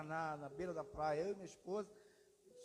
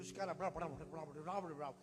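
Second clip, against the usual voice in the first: mock foreign gibberish; 3 semitones lower than usual. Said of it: "Línguas eu interpreto, isso não dá".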